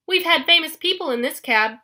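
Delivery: loud, high proud exclamation; boastful old hag exclaiming. A narrator's reading. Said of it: "Anger exclaimed".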